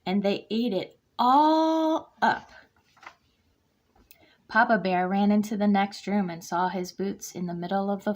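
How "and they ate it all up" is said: higher, louder, slow squeaky cub. A narrator's reading. Baby Bear complaining her soup is gone, high slow squeak. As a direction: squeak it like a tiny upset cub. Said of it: "in her high, squeaky voice".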